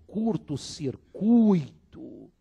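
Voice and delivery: curto-circuito very slow, cir-cui-to; slow model. Shown as a demonstration. Teacher models curto-circuito slowly. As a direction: stretch curto-circuito syllable by syllable. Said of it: "jamais circuito".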